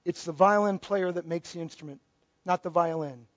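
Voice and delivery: low, soft voice of a musician making his point; understated, hushed retelling of a punchline; retold parting words. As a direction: deliver the violinist's line low and quietly. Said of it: "he said".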